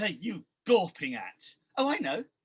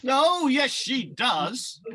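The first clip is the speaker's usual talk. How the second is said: panto call; 3 semitones higher, 6 dB louder, slower than usual. Acted.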